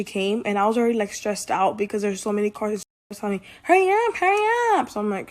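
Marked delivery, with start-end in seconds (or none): 3.6-4.9 high, loud, rushing hurry-up; impatient yelling. Retold or imitated. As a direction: bark it like an impatient customer. Customers rushing her at drive-thru.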